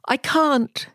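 high whispered I can't; whispered admission. A narrator's reading. Crispin whispers to the knight that he cannot breathe fire. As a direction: whisper it ashamed. Dragon admits failure.

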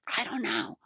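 a small, baffled shrug in the voice; soft, high, bewildered answer; helpless. Retold or imitated. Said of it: "I'm like".

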